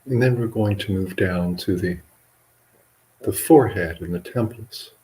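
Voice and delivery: measured meditation guidance with long pauses; guided meditation. Acted. Monk leading livestream listeners and yogis in relaxation, guided meditation. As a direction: guide listeners unhurriedly, leaving long silences between phrases.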